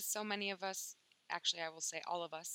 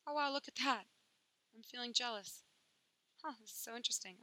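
mock curious wonder; 4 semitones higher than usual. Shown as a demonstration. Modeling curious self-observation.

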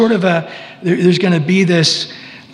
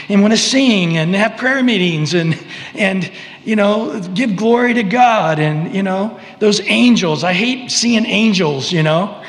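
higher, whiny complaint about all the righteousness; resentful millennial rebel; 3 semitones higher than usual. Pretend. Preacher voicing a rebel who hates worshipping Jesus, whiny and higher. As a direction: sneer at the goody two shoes. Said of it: "their hearts are revealed".

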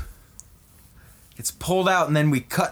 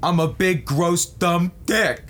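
dismayed whine; 4 semitones higher than usual. Acted. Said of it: "he's like".

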